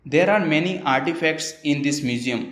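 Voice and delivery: very slow, carefully spaced English sentence; slow example reading. Shown as a demonstration. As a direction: read the example slowly for learners. (धीमे-धीमे उदाहरण पढ़ना)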